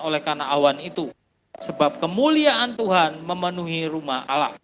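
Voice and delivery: measured, solemn reading of the Bible passage; scripture reading. Acted. Preacher reads the temple verse to the congregation, solemn and measured. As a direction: read it out to the congregation like holy writ.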